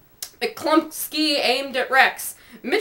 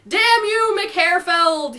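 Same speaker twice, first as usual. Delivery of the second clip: high, loud wail of damn you; a mildly wailed curse; 6 semitones higher, 3 dB louder, much slower than usual. A narrator's reading. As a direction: wail it at the sight of the submarine. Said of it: "he wailed".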